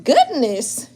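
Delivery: reacting to shocking news, speechless; shocked gasp. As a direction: act out being floored. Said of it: "when you just shocked".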